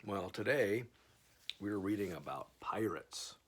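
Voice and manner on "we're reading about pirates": whisper. Real, not acted. Teasing whisper to viewers.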